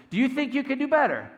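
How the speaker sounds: high, loud outburst; angry yell. Retold or imitated. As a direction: snap and yell it at your coach. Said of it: "he starts yelling".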